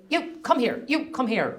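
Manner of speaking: put-on commanding call, Cork accent; authoritative Cork voice. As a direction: order them over with authority. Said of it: "in an authoritative voice in her Cork accent".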